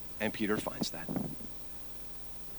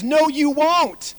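Jesus's calm reply; 12 dB louder, much slower than usual. Acted. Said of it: "And Jesus says".

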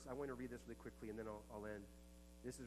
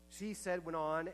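she said, thrown out high and loud; loud preaching; 5 semitones higher, 9 dB louder than usual. Acted. Preacher to congregation, bursting into a loud, high retelling. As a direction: launch the quote like a preacher at full force.

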